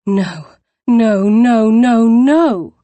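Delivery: building panic as the carriage comes; panicked cry. Acted. Poppy crying out as the carriage nears the Duke.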